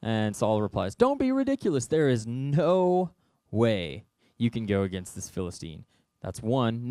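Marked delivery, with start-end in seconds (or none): 1.0-5.8 scoffing king. Acted. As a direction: laugh him off as a silly kid. Saul dismissing David.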